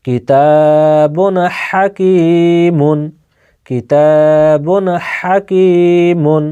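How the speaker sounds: slow, drawn-out chanted reading; Quran recitation demo. Shown as a demonstration. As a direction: recite each word slowly for the class. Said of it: "জাহির করে তাড়াতাড়ি পড়তে হবে".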